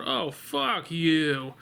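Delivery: slow, drawn-out mock curse at the screen; angry outburst. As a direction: stretch the curse out slowly. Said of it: "I actually said out loud".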